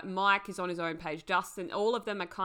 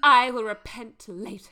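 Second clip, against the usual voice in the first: louder, higher playful quote; mock pious promise; 4 semitones higher, 11 dB louder than usual. Acting out Susie's excuse to her friend, mock pious. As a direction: put on Susie's solemn vow, lightly.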